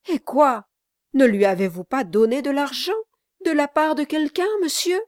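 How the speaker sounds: high, quick, anxious questioning; great anxiety. A narrator's reading. Monsieur Garland questions Brass about the money, great anxiety. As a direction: ask urgently, voice climbing to the end. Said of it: "avec la plus grande anxiété".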